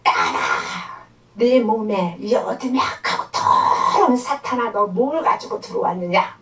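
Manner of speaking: stern re-enacted challenge to a demon; voice of the Holy Spirit. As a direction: interrogate the evil spirit with authority. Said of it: "성령이 막 음성이 막 나오고".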